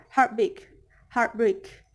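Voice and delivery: "heartbreak" with both halves evenly weighted; equal stress. Shown as a demonstration. Teacher showing spondaic pattern, equal stress in "heartbreak". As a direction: give "heart" and "break" the same weight. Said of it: "all syllables have equal stress".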